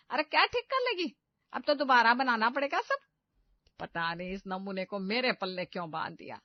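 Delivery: mother-in-law screaming insults at the bride; furious scolding. Acted. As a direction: tear into her for ruining the food.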